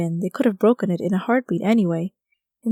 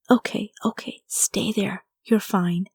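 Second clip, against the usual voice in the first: whispered; slower than usual. Acted. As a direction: hush it down to a whisper, soothing. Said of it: "I whispered".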